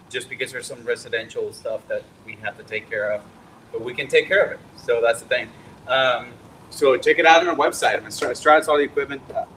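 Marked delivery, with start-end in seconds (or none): 5.9-9.4 talking with a mouth full; words around a bite of food. Real, not acted. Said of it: "Sorry, my mouth is full".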